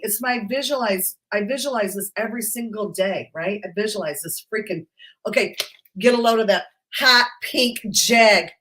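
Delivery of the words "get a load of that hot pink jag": excited showing off. Real, not acted. Showing off her dream car.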